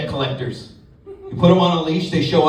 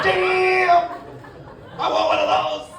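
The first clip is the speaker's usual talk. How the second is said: mock excited; slower than usual. Excited exclamation.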